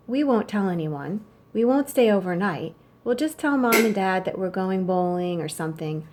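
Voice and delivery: steady read-aloud of the letter; story narration. A narrator's reading. Teacher reading a chauffeur's letter to the class, calm narration.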